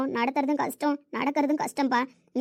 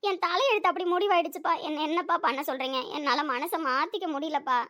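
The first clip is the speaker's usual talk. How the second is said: higher tearful voice, fading and slowing; crying; 5 semitones higher than usual. Acted. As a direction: weep as she pleads with her father. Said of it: "அழுவாத சாமி".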